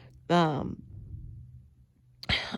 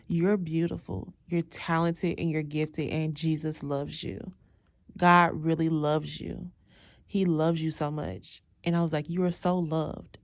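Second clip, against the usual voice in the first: tender blessing. Retold or imitated. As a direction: speak love over her gently. Blessing the angry woman.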